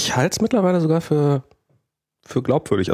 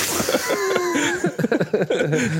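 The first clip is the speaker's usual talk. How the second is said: long high burst of laughter; 12 semitones higher than usual. Real, not acted. Laughing at mic mix-up.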